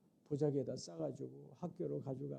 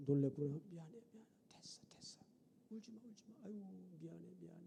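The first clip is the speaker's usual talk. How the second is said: much softer, half-whispered comfort; soft soothing; 9 dB quieter, much faster than usual. Retold or imitated. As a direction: hush the crying child gently, much softer. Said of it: "다독거렸어요". (우는 딸을 다독이는 작은 목소리)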